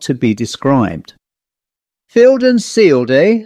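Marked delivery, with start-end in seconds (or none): 2.1-3.4 high, loud burst of shocked understanding; the squire suddenly sees it all, higher and louder; startled realisation. Acted. Squire grasps the horrible secret.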